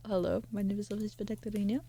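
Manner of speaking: lightly altered, quick chirpy introduction; a hint of a bubbly wasp character; quick playful intro in a lightly put-on voice. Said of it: "This is not my usual voice".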